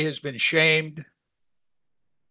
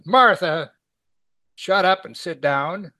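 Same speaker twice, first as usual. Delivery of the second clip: loud scolding command, name pitched up; sharp rebuke; 3 semitones higher, 5 dB louder, slower than usual. Acted. Jesus imagined snapping at Martha, loud sharp rebuke. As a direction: scold her loudly, words hit slowly and firmly. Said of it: "now, how did he say this?".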